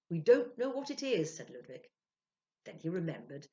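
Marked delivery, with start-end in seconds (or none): 0.1-1.4 high, loud, urgent reply; Ludwig's reply. Acted. Ludwig admitting ignorance to the spirit, high and loud. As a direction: tell the spirit, raised and loud.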